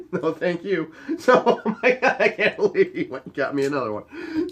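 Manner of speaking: words through laughter; laughing. Real, not acted. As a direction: chuckle as you speak. Laughing while retelling ending.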